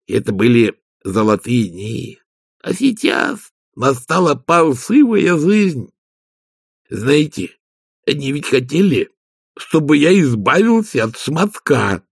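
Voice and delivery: slow, lightly voiced Igor, lamenting; Igor, aggrieved servant. Igor complains about his new masters, slow and aggrieved. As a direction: servant mourning the good old days.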